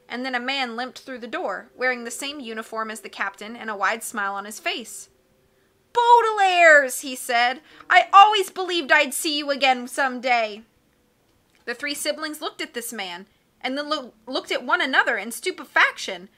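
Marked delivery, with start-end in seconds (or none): 5.9-10.6 kind cook voice. Acted. Kindly cook greets children.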